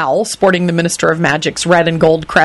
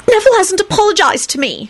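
angry announcement. A narrator's reading. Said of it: "she announced angrily".

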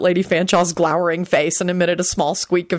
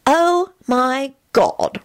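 high, very slow disbelief; slow appalled aside; hissed aside; 7 semitones higher, much slower than usual. A narrator's reading. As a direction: draw it out in scandalized disbelief. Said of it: "Rosie hissed to Jamie".

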